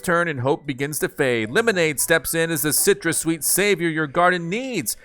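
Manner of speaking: lively product-blurb read; promo read-aloud. Acted. Gamer reading a new plant's description to viewers, promotional read. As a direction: read it out like an upbeat advert.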